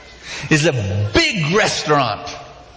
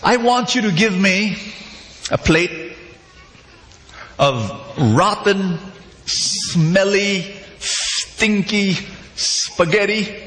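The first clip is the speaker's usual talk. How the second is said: higher, slow, relishing each gross word; hammed-up odd customer; 4 semitones higher, slower than usual. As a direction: savour the disgusting order like a delicacy. Customer orders disgusting food.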